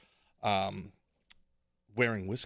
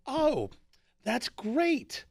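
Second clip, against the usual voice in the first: imitating the dad; 9 semitones higher than usual. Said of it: "He would be like".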